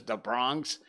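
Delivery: lightly put-on Bronx accent. Shown as a demonstration. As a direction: say "da Bronx" like a local. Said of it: "fifty New York accents".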